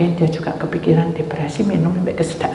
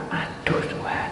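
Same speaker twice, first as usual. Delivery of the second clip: inner whisper; 11 dB quieter, slower than usual. Retold or imitated. Itu dalam hati saya.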